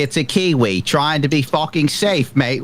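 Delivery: lightly put-on Australian accent, teasing; a jokey Aussie mate voice poking fun; mock Australian accent. Mocking a cautious Kiwi for the podcast crew, in a light Australian accent. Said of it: "That was my best Australian accent I could come up with".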